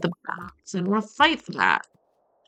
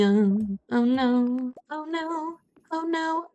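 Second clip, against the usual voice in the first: panicked; 5 semitones higher, 4 dB quieter, slower than usual. Real, not acted. Falling into a pit.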